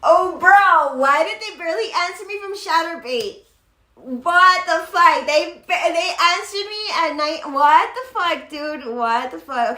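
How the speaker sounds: loud, stunned disbelief; loud what-the-fuck shock; shocked outburst. Real, not acted. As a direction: blurt it out, thrown by the news. Stunned by the appeal reply.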